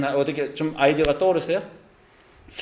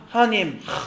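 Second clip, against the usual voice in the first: complaining to God; 5 semitones higher than usual. Retold or imitated. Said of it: "이런 말을 할 때도 있어요".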